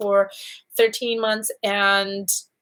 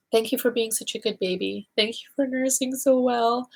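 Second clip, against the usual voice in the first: tender thanks; 3 semitones higher than usual. Retold or imitated. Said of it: "And I cried".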